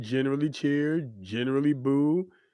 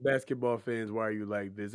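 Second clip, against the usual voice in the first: muted aside; 6 dB quieter than usual. Pretend. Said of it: "Everything short of saying".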